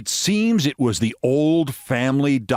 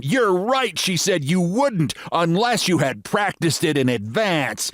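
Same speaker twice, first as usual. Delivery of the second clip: American lady voice; 8 semitones higher than usual. Acted.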